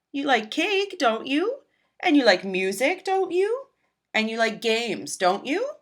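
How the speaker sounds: sing-song coaxing, each don't you rising high; a dad gently talking his daughter round, lilting; coaxing father. Acted. Dad coaxing Violet at bedtime about parties, sing-song questions. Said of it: "Her dad starts to say what he always says".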